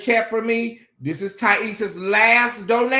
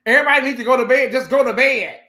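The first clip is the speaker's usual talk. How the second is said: fast, louder, fed up; exasperated rush; 3 semitones higher, 6 dB louder, faster than usual. Real, not acted. Streamer shooing the chat off to bed, fast and louder. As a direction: hurry them off to bed, loudly.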